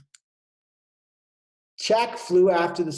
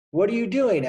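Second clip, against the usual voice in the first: higher, louder questioning bird; curious blackbird; 7 semitones higher, 6 dB louder than usual. Acted. Blackbird Jack asking his friend, raised and curious. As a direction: ask it up high like a curious bird. Jack asks swallow, voiced.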